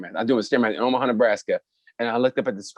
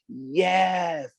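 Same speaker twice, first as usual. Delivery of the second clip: cheering crowd; 6 semitones higher, 3 dB louder than usual. Pretend. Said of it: "the trans community be like".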